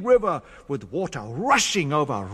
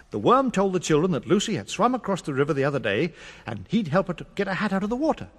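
ordinary delivery

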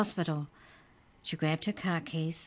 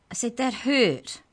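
loud, high, indignant squeak; a tiny creature scolding its attacker; high squeaky rage; 8 semitones higher, 7 dB louder than usual. Acted. The book elf scolds Trent for throwing it, squeaky and loud. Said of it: "The book's voice was high and squeaky".

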